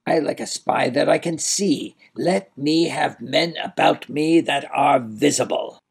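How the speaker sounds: high-pitched shout without much volume; understated tyrant's shout; mild shout. A narrator's reading. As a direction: shout it in character, held back. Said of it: "he shouted".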